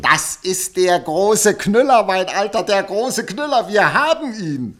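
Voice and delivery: lauter, triumphierender Ausruf; aufgeregter Jubel. Acted. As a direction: platzt vor Begeisterung über den Fund. Reporter jubelt über großen Knüller. (begeistert und laut)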